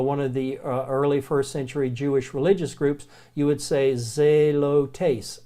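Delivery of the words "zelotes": zelotes drawn out slowly, ZAY-loh-tays; slow Greek word. Shown as a demonstration. Teacher to students, modelling zelotes slowly. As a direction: sound out zelotes syllable by syllable. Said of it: "if you were trying to say zealot".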